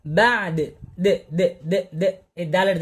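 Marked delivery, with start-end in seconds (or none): 1.0-2.1 a short bounced "দে" repeated lightly; dal sound demo. Shown as a demonstration. Teacher showing the dal sound with light "দে" repeats. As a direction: tap "দে, দে" with a small echo. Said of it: "দালের যে একটা sound দিয়ে দিছি".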